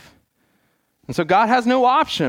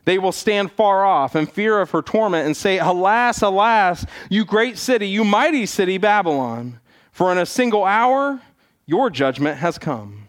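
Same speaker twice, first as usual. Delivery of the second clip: solemn scripture reading. Acted. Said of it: "here's one of those verses from Revelation".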